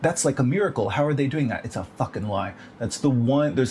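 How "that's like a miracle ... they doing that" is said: mock clickbait voice. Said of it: "You're seeing, like".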